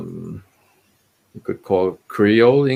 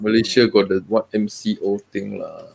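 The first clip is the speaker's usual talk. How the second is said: Singlish. Acted. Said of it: "We will talk in Singlish".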